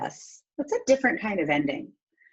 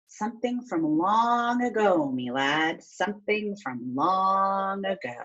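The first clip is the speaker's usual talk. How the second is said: lightly voiced old man, slow; slow old storyteller; slower than usual. Old storyteller answering the boy, slow and lightly voiced.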